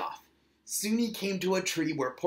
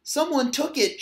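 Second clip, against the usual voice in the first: put-on higher, insistent child cry; shouted; 9 semitones higher, 3 dB louder than usual. A narrator's reading. Little otter insisting to mother his pine cone was taken, shouted. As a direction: insist it out loud. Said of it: "shouted little Otter".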